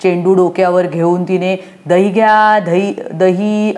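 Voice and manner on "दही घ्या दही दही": slow sing-song street vendor call; curd seller's call. Pretend. Anu playing curd seller with the ball, slow vendor call. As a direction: call out like a hawker selling curd. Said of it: "असं सगळं केलं".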